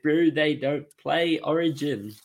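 put-on a poor stab at a Kiwi accent; awful Kiwi accent. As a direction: ham up a bad New Zealand accent. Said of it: "that was an awful Kiwi accent".

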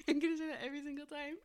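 laughing. Real, not acted. Laughing repeat.

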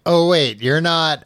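lady suddenly doubting who he is; sudden realisation. Retold or imitated. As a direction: catch yourself mid-thought. Beryl suddenly realising something.

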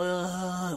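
soft, lazy imitated groan; slobbish groan. Host mimics a woman lying like a slob, soft slobbish groan. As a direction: let out a limp couch groan. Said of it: "like a slob".

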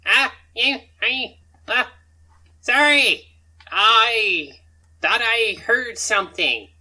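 loud, high, halting excuse; flustered stammer. Acted. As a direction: stumble through a panicked cover story. Goblin stammers excuse to guards.

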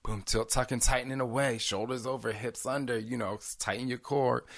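workout instructor. Retold or imitated. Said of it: "I got back to my work. I was like".

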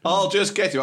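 sudden loud high shout. Retold or imitated. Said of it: "I don't know why I'm shouting".

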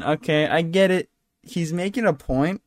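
ordinary talk, nothing marked

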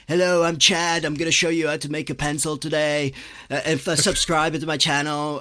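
hammed-up kid vlogger greeting his channel; lightly voiced YouTube presenter; mock YouTuber.

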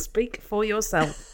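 husky and slow, like a heavy smoker; smoker's rasp. Real, not acted. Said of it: "Maybe with this voice".

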